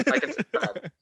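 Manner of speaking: high, bright mock sign-off; YouTuber outro voice. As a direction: hype it like a vlogger ending.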